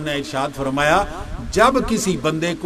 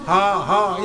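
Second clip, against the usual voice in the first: yawn sounds; 2 semitones lower, slower than usual. Shown as a demonstration. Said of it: "اس طرح کی آوازیں نکالتے ہیں".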